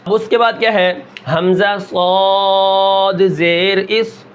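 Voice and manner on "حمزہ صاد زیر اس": slow حمزہ صاد زیر اس with full-voiced heavy ص, no bounce. Shown as a demonstration. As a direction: stretch it and thicken the ص. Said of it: "میں نے صاد کا پورا نام لیا". (صاد کو موٹا، آہستہ تلاوت)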